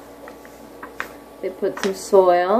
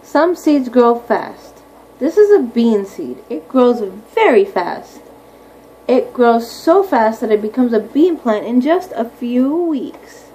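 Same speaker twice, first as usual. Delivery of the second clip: unhurried, clear picture-book reading; slow read-aloud; 4 dB louder, slower than usual. Acted. Teacher reading about oak trees to her class, slow read-aloud. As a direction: draw the words out for little listeners.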